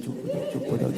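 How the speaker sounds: sharp, tense shushing; urgent hush. Retold or imitated. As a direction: hush everyone fast. Hushing family urgently. (घबराकर चुप कराती फुसफुसाहट)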